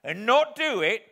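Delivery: loud, slow, scornful rant; disdainful. Acted. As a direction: sneer at the idea with contempt. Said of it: "said my convict disdainfully".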